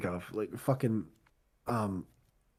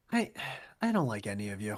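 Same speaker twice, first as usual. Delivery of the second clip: deadpan mutter; 8 semitones lower, 7 dB quieter, faster than usual. Retold or imitated. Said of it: "I go to myself".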